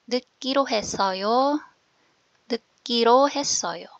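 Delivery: 듣기로 했어요 spaced out as "deu-kkiro hessoyo"; careful pronunciation. Shown as a demonstration. Teacher goes through the phrase for learners, careful pronunciation. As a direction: model 듣기로 했어요 with a held, tight "kk". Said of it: "Yan po yung ating pronunciation".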